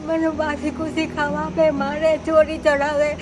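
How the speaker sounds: crying while telling. Real, not acted. Old mother telling the host about her abusive sons, crying. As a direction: voice rising in tearful complaint. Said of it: "કેમ રડો છો કેમ તમે?".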